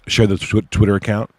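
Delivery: throat catching, slightly hoarse; a bit croaky, frog in the throat. Real, not acted. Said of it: "I got a frog in my throat".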